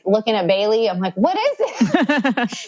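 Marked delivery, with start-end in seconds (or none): 1.2-2.7 high, stretched-out plea breaking into laughter; hammed-up drawn-out demand; retold impatient question. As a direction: act out begging for the answer, slowly. Acts out impatient question at birth.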